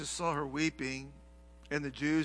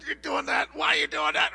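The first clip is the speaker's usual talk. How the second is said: exasperated scolding; 10 semitones higher, 5 dB louder than usual. Retold or imitated. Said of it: "You're going".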